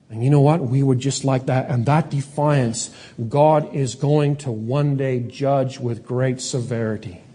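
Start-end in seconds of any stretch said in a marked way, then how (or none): none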